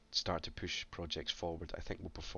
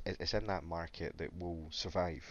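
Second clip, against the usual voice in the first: coughing. Real, not acted. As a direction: voice catching before a cough. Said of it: "I am coughing a little bit".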